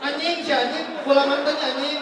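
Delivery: high, worked-up mock swearing; mock cursing. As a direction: imitate a mother losing patience and cursing. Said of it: "sampai dimaki-maki". (menirukan ibu memaki-maki)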